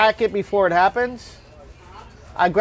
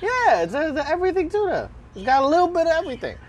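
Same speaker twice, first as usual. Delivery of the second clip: excited; 9 semitones higher, faster than usual. Real, not acted. Proudly naming his sandwich.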